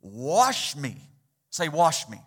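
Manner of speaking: loud, rising plea, wash me; preacher voicing a desperate prayer for cleansing; crying out to God. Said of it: "he cried out to God".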